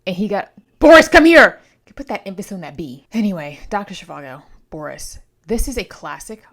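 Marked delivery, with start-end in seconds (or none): 0.8-1.6 loud, high calling out; Boris's mama shouting for him; mom yelling. Pretend. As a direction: call him in like a mother. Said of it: "if I was Boris's mama".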